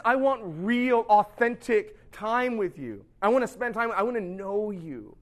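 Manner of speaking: slow, drawn-out mock yearning; yearning wife. Wife begs husband for authentic time, yearning. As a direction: imitate a wife pleading for closeness.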